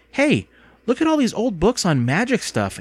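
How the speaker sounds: high-pitched, eager discovery; excited exclamation. A narrator's reading. Girl spots old magic books, exclaiming excitedly. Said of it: "Andy exclaimed".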